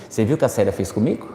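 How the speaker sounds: conspiratorial quick murmur to a coworker; gossiping aside. Retold or imitated. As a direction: lean in and spill it quickly, softly. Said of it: "eu já vou dizer assim".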